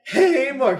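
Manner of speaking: high, loud, stretched-out greeting; intro shout. Shown as a demonstration. Host redoing the video intro, high loud call. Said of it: "I'll do our intro".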